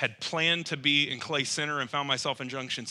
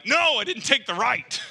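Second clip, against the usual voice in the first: sheepish laugh; 10 semitones higher, 7 dB louder than usual. Retold or imitated. Sheepish admission to laughing grandpa.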